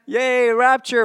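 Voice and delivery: slow, high, loud little cheer; excited cheer. Real, not acted. Preacher cheering about the rapture, excited. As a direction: cheer the word like good news.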